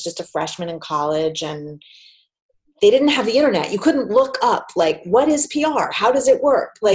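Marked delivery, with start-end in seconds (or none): 5.0-6.8 high, puzzled questioning; curious naive voice. Retold or imitated.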